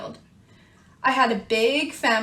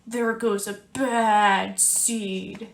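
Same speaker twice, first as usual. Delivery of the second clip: mumbling seeds; 2 semitones lower, much slower than usual. Acted. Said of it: "they mumble".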